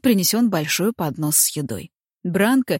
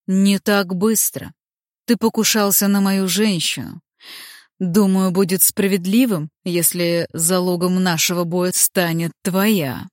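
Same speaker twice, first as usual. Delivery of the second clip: slow, sinister drawl of the serpent lord; menacing drawl; 3 dB louder than usual. Acted. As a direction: drag the words out with menace. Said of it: "Нехорошо протянул Чёрный Змей". (зловещая протяжная речь)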